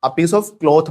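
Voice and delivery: a piece of cloth said very slowly, every word spaced; teacher modelling the correct phrase, half speed; slow teaching model. Shown as a demonstration. Teacher drilling English students, slow careful model phrase. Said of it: "तो मैंने क्या बोला?".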